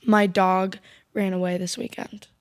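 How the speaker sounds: low, slow, offhand retelling; nonchalant. Retold or imitated. Little girl tells about her lost dog, nonchalant. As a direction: imitate a kid casually sharing news. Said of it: "so nonchalantly".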